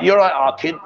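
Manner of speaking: lightly imitated Liverpool accent that lands nearer Brummie; Scouse accent attempt. Host showing a guest how Liverpudlians talk, botched Scouse accent. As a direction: have a go at a Scouse greeting. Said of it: "they talk with a really funny accent".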